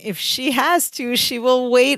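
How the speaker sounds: slow, self-satisfied explaining; condescending. Retold or imitated. Podcaster as Larry smugly explaining Marianne to Jennifer, condescending. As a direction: lay it out slowly, mock patronizing. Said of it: "in the most condescending voice".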